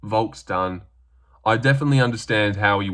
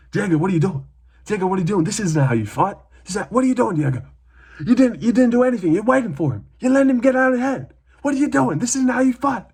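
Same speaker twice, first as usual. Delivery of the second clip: high, fast, frantic yelling coach; angry cornerman; 11 semitones higher, faster than usual. Retold or imitated. Cornerman berating Diego between rounds, frantic high voice. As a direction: scold him between rounds, hammed up. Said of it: "His corner go to him".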